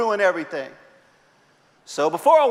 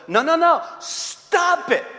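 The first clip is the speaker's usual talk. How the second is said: high, curt "Stop it" from the sketch therapist; deadpan comic command; blunt psychiatrist; 7 semitones higher, slower than usual. Retold or imitated. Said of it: "And she goes".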